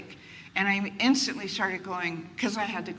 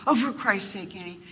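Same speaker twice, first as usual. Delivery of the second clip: exasperated mother; 3 dB louder than usual. Retold or imitated. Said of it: "I'd say all this material".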